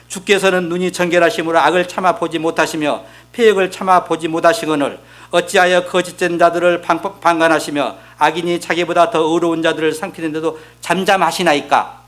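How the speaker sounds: level, evenly paced Bible reading; scripture reading. Acted. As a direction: recite the verse formally, keeping the tone even. Reads scripture aloud. (성경 구절을 고른 어조로 낭독)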